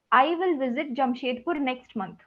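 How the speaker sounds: "will" firmly weighted with a falling tune; stress on will. Shown as a demonstration. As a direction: lean on "will" to sound definite. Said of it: "You see the, uh, strength in that sentence?".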